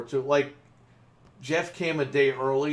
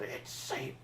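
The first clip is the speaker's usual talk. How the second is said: whispered creepy voice through the camera; breathy ghostly whisper to scare him; spooky whisper; 12 dB quieter than usual. Retold or imitated. Pranking a coworker through the security camera, eerie whisper. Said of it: "And I just said".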